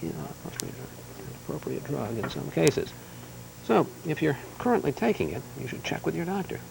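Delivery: softly measured correspondent read; understated broadcast delivery; news read rehearsal. Pretend. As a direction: practise the voice-over quietly, phrase by phrase. Rehearses the script.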